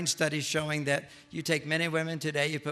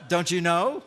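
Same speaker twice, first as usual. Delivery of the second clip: mock indignant wife; 8 dB louder, slower than usual. Angry wife in bed.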